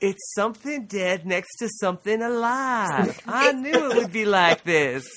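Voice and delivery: a lightly voiced creepy man, laughing through it. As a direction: lean into the creepy man impression. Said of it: "This is you Creepy Man voice".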